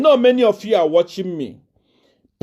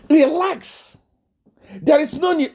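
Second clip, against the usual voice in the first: emphatic relax; 8 semitones higher than usual. Shown as a demonstration. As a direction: push Relax up high to mock the panic.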